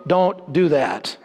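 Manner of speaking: slow, dry "Don't do that."; slow deadpan mock instruction; deadpan manual quote. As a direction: read it out flat like a warning label. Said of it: "they wrote in their manual".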